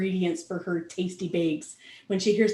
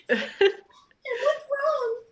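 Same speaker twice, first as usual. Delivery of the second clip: fussing pony. Acted. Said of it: "character voice".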